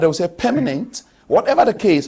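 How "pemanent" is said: "permanent" with an open e first, as PEH-muh-nent; Ghanaian pronunciation. Shown as a demonstration. Panelist showing how Ghana says it, Ghanaian pronunciation of "permanent". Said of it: "in Ghana, they'll say permanent".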